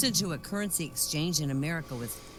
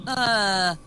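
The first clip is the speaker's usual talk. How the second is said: higher, louder French question; French phrase; 7 semitones higher, 6 dB louder, slower than usual. Retold or imitated. Swiss man trying the Englishmen in French. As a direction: try asking in careful French. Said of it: "he says".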